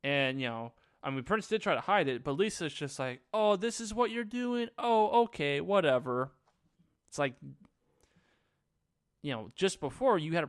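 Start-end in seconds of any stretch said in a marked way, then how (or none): 3.3-6.3 higher-pitched airy brush-off, dropping on the last word; high "oh, okay" sliding into whatever; mock dismissive. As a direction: act put out, then shrug it off. Acts Lisa's dismissive reaction.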